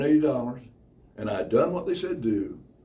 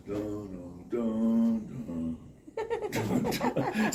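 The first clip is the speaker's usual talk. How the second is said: gloomy dun-dun sounds; much slower than usual. Acted. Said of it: "You leave Walmart going".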